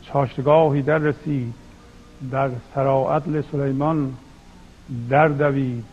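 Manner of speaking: measured verse reading with deliberate pauses; poetry recitation. Acted. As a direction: recite the couplets phrase by phrase. (شعرخوانی شمرده با مکث)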